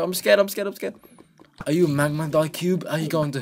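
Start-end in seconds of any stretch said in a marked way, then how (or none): 0.0-0.9 higher, louder playful fright; mock fear. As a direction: whimper in fake terror. Magma cubes attacking.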